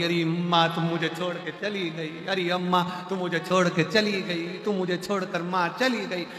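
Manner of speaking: lightly sing-song mourning lament; mock wailing. Daughter-in-law lamenting her mother-in-law, mock wailing. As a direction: wail theatrically, without real tears. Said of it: "बहू रो रही थी".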